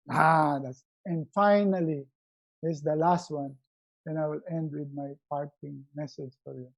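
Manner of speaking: ordinary talk, nothing marked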